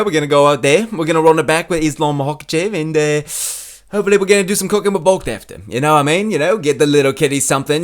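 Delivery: lightly voiced Australian fighter; Alexander Volkanovski impression. Comic imitating fighter's post-fight talk, rough Australian impression. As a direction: attempt a chatty, matey Australian accent. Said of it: "Moving on up next to Alexander Volkanovski".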